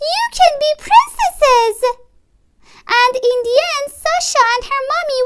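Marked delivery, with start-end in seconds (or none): 0.1-1.8 contrary protest. A narrator's reading. Child's contrary protest in play.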